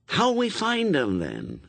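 put-on puzzled, doubtful boy. A narrator's reading. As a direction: ask it unsure, starting high.

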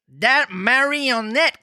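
high, slow, drawn-out cricket voice; talking cricket voice. Acted. Reading Pinocchio aloud, the cricket speaks in a high voice. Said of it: "that voice is too good".

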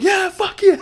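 loud, laughing stadium cheer; excited. Retold or imitated. Friends in the stands cheering a big catch, loud and laughing. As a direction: shout it like the whole section is going nuts.

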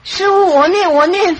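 high, loud eager reply; eager beggar. Retold or imitated. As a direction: jump at the offer to chant. Man eagerly agrees, retold. (乞丐急切地答应念佛)

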